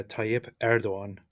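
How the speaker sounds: slow Tayyip Erdogan, TAH-yip EHR-do-an; Turkish pronunciation. Shown as a demonstration. Co-host modelling the name, slow Turkish Tayyip Erdogan. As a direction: Tayyip Erdogan with the g left silent. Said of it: "Turkish pronunciation".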